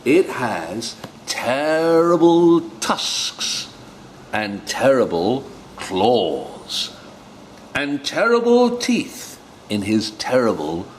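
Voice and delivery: very high, slow and spooky little mouse; mouse telling a scary tale. Acted. The mouse frightens the fox, high, slow and spooky. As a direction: scare the fox with each terrible. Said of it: "mouse describes the Gruffalo".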